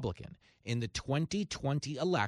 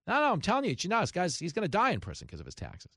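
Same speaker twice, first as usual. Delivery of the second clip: higher mock certainty that fades fast; mocking quote; 4 semitones higher, faster than usual. Commentator mocking the prison prediction, in smug mock certainty. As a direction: rattle it off as a smug believer.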